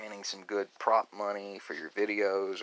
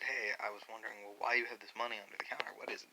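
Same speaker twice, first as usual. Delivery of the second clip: quick hushed whisper; soft, rushed, unvoiced curiosity; whispered question; 6 dB quieter, faster than usual. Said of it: "when someone said".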